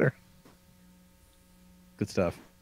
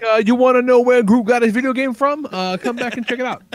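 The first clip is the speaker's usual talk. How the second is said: promo tease; 8 semitones higher than usual. Acted. Teasing next week's show.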